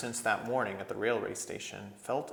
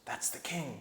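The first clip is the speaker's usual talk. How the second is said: whispered; 5 semitones higher, 6 dB quieter than usual. A narrator's reading. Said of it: "whispered Trumpkin".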